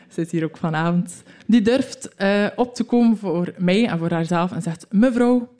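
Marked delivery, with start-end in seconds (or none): 4.9-5.6 louder, higher call of Mevrouw; bold retort. Retold or imitated. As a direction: speak up firmly to the teacher. Classmate stands up to teacher.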